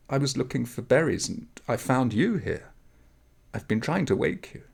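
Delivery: put-on a high, urgent young girl's voice; eager village girl urging him up; young girl waking him. Girl explains finding him.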